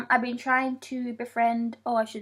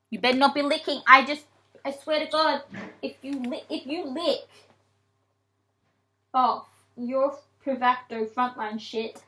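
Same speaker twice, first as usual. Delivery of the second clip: mock-stern scolding. Real, not acted. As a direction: warn the cat like a stern parent. Scolding her cat about licking.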